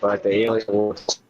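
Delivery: cutting out, distorted line; choppy call audio; bad connection. Real, not acted. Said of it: "Oh, you're cutting out pretty badly".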